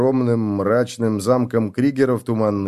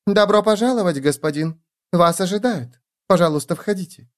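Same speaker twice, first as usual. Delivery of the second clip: breathy bombshell; 8 semitones higher than usual. A narrator's reading. Young blonde girl greets guest.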